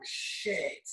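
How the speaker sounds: under-the-breath whispered shit; a whispered curse with the press listening. Retold or imitated. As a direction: hiss it so nobody hears.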